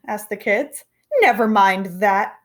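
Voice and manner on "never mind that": snapped. Acted. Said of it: "snapped Miss Swamp".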